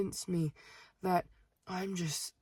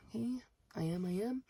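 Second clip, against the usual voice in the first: softer, higher, uneasy agreement; hesitant compliance; 4 semitones higher, 4 dB quieter than usual. Retold or imitated. Cashier humoring a pushy customer, hesitant. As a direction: go along with it, small and high.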